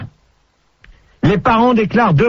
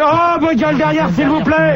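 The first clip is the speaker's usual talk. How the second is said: raised, higher-pitched telling-off; exasperated scolding; 5 semitones higher than usual. Real, not acted. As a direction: shut up the rabble behind you. Host scolds noisy callers behind him. (réprimande exaspérée, voix qui monte)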